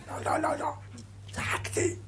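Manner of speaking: high, quick fan voice; mock fan denial. Preacher voicing a football fan backing down, high mock denial. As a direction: play the caught fan backing off.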